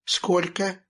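cheerful question. A narrator's reading. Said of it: "бодро спросил Юрка".

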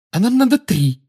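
loud, high-pitched determination; resolute, emphatic interjection; full of resolve. A narrator's reading. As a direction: state it firmly and decisively. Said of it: "но уже полной решимости".

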